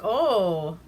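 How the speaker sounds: loud, high taunt that ends in a cackle; hammed-up jeering laugh; mocking laugh. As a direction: needle her, then crack up laughing. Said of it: "And he's like".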